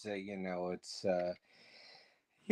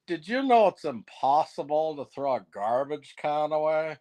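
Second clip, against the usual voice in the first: Harland Williams. Retold or imitated. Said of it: "one of my famous jokes, Harland Williams".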